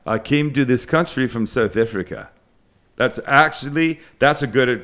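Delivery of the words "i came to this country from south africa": light South African accent, Africa as Ifrica; a hint of a South African accent. Shown as a demonstration. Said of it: "that's a good accent".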